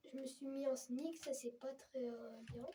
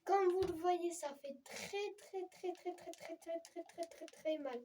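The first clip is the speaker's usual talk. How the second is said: walking on hot sand; 4 semitones higher than usual. Real, not acted. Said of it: "Aïe, aïe, aïe".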